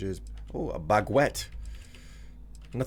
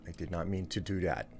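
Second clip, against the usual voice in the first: put-on cutesy baby talk uwu voice. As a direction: lisp cutely like an uwu streamer. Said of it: "All right, Uwu voice it is".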